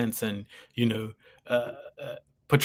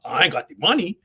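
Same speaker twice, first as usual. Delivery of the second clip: playful voice; 7 semitones higher, 5 dB louder than usual. Retold or imitated. Himself voiced, comic.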